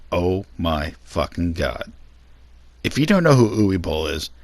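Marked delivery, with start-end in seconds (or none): 0.1-1.9 exasperated groan. Real, not acted. Dreading the next director.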